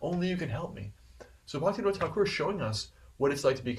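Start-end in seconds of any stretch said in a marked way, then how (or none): 0.0-0.9 retold tearful prayer. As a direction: plead as a fallen soul, without real tears. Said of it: "you can't read it without crying".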